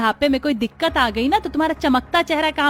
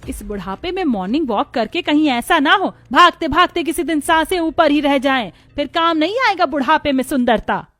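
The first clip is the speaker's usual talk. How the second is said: taunting; 5 semitones higher, 4 dB louder than usual. Acted. Wife taunting husband on walk.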